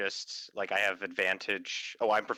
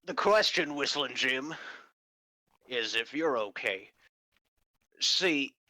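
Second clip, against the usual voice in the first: a hint of a gruff investigator; measured questioning, lightly gruff; gruff detective fox; 2 semitones higher than usual. Detective questions Whistling Jim about missing skeletons, lightly gruff. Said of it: "you're using your gruff voice".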